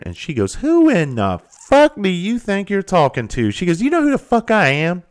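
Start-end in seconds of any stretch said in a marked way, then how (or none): 0.6-3.5 high, loud, slow mock outrage; hammed-up haughty challenge; imitated indignant outburst. Retold indignant woman confronting a worker. 3.8-5.0 high, loud mock outrage; imitated indignant outburst. Retold woman pulling rank in quarrel.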